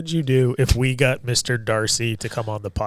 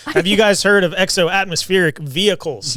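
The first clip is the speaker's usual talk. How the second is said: loud sharp voice; 4 semitones higher, 4 dB louder than usual. Real, not acted. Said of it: "You're yelling".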